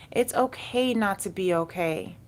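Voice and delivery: normal talking voice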